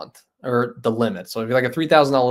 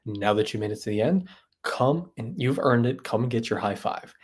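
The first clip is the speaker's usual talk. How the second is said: CJ. Retold or imitated. Streamer imitating CJ for his chat, lightly done impression. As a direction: finish on a near-whisper, imitating a creator's outro. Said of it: "C J? He's like".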